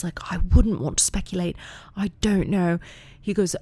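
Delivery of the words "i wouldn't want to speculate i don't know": imitating a polite British child; mock-prim British daughter; little British voice. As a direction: put on a careful, proper British girl's accent. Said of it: "Violet's little British voice".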